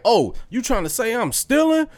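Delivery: high-pitched mock offense; imitated affronted vendor; taking it personally. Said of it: "took that shit personally".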